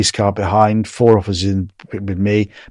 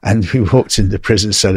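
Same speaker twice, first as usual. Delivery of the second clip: normal talking voice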